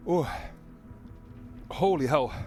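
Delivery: real exclamation. Real, not acted. Reacting to pepper heat.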